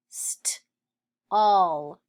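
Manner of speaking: voiceless "st", pause, loud "all"; sounded out. Shown as a demonstration. Teacher sounding out stall for pupils, sounded out. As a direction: separate st from the rest.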